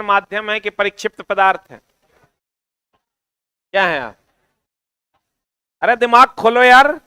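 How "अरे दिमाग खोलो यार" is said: insistent prodding. Real, not acted. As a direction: prod the class, voice lifted. Prodding students who fail to answer. (ज़ोर देकर उकसाते हुए)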